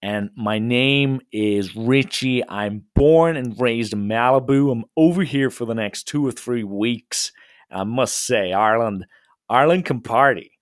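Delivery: light put-on Malibu American accent; lightly faked American accent, Malibu style. Shown as a demonstration. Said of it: "I put on a Malibu accent".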